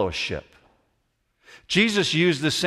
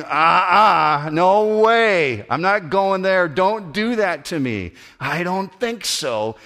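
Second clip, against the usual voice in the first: higher, louder, pleading protest that fades out; reluctant refusal; 5 semitones higher, 4 dB louder, slower than usual. Retold or imitated. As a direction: balk at being made an example. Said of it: "And you're thinking".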